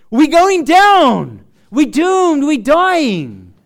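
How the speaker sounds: slow, loud panicked cry; mock terrified wail; cries of distress. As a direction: cry out that the boat is sinking. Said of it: "different cries of distress".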